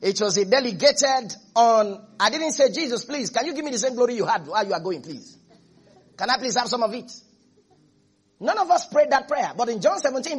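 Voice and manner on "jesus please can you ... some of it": mock pleading. Mock begging prayer to Jesus.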